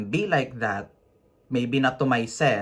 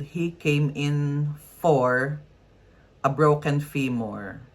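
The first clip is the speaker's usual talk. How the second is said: "for" drawn out slowly, then a pause; stress on "for"; 3 semitones higher, slower than usual. Shown as a demonstration. Nurse quoting a faulty handover, slow stress on "for". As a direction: dwell on "for", pause before "a broken femur".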